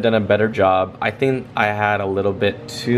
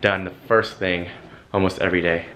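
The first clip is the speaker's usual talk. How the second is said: out of breath; 3 semitones lower, faster than usual. Real, not acted. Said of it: "I'm so out of breath".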